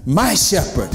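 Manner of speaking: "My" hit hard, "shepherd" falling away; emphatic "My shepherd"; stress on MY. Shown as a demonstration. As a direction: claim it by punching "My". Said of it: "Take ownership of that".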